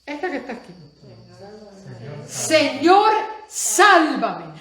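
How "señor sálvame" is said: loud pleading call to the Lord; sharp loud plea, then falling; desperate cry for help. Retold or imitated. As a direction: shout it like a man going under. Peter cries out while drowning.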